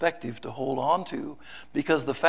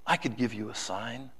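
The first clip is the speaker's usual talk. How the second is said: tender; 6 semitones lower, 9 dB quieter than usual. Acted. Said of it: "he tenderly said".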